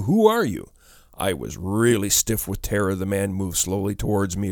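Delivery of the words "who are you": high, alarmed question; frightened demand. A narrator's reading. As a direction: demand it with pitch leaping up. Terrified woman demands stranger's identity.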